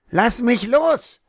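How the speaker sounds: high, slow drawn-out yell; child yelling. A narrator's reading. Hannah yells at her brother holding her, high and slow. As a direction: shout it while struggling free. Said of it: "brüllte sie".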